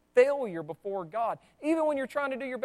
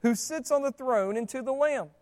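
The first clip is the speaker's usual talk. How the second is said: proclaimed shout; 7 dB louder than usual. Retold or imitated. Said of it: "they're screaming".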